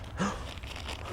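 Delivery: sharp airy gasp of delight. Real, not acted. Presenter gasps over the soil improver. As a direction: suck in a breath in amazement.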